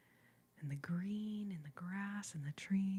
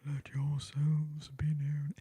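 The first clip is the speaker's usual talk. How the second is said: lower, whispered repeat of the call; 4 semitones lower, 3 dB louder than usual. Real, not acted. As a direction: let yourselves be known, back in a hushed whisper, slow. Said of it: "sorry, I'm being".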